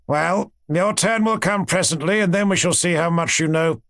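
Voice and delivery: a hint of a cold, superior professor; stern professor. Professor brushing off the student's answer, mildly stern.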